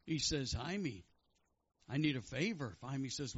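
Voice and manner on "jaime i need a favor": lightly put-on New York Jewish accent; joke-teller's Jewish accent. Man asking his friend a favor, Jewish accent. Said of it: "with his Jewish accent".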